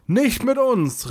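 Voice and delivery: high, drawn-out cry of defiance; defiant call. A narrator's reading. Soraya defies the black mage, calling out high. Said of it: "rief Soraya".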